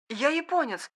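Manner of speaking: «Я японец!» high and quiet, trembling. Acted. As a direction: say «Я японец!» with a shaky, frightened high voice. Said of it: "дрожащим голосом произнёс". («Я японец!» дрожащим голосом)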